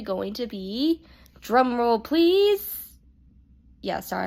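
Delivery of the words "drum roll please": drawn-out drum roll call. Acted. Announcing the special video.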